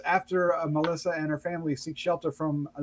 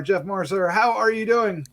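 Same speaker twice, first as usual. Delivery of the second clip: ordinary talk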